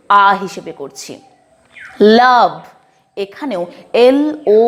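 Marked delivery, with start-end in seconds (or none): 2.2-2.5 লাভ with a short আ vowel, said firmly; English word pronunciation. Shown as a demonstration. Teacher modelling love for students, clear and stressed. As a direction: hit the আ in লাভ. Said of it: "ও এর উচ্চারণটা কিন্তু আমরা আ এর মতোই".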